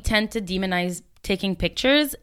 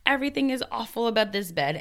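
mock furious complaint; 7 semitones higher than usual. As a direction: act out outraged whining after stubbing a toe. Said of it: "you're like".

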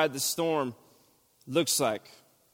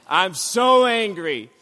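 slow, louder so angry with weight on so; 3 semitones higher, 5 dB louder, slower than usual. Shown as a demonstration. To the congregation, anger now spilling out. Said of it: "And I'm so angry".

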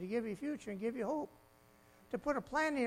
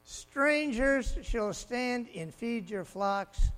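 delighted reading; 6 dB louder, much slower than usual. Real, not acted. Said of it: "now I love this".

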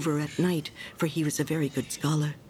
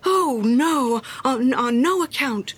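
louder, higher, hurried protest; alarmed cry; 5 semitones higher, 5 dB louder, slower than usual. A narrator's reading. Hans refusing to let the miller do it himself, alarmed. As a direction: cry out anxiously to take it back. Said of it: "cried little Hans".

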